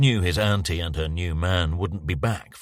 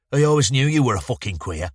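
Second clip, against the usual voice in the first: put-on Bowman jeers at the boy, a bit louder and higher; sneering youth; 6 semitones higher, 4 dB louder, faster than usual. Bowman mocking the boy who follows him, lightly voiced sneer. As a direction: spit the insult out at him.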